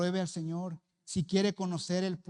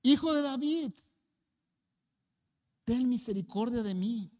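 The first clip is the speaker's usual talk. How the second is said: loud, high pleading cry; crying out again; 5 semitones higher, 4 dB louder than usual. Retold or imitated. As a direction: call out louder for mercy. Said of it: "dijo otra vez".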